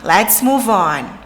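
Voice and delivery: "Let's move on" drawn out slowly; slow English phrase. Shown as a demonstration. Professora mostrando a frase em inglês para as alunas, devagar. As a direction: model the phrase slowly for learners.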